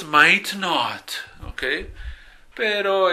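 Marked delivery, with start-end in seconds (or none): 0.0-1.1 British accent. Shown as a demonstration. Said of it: "si quieren ser británicos".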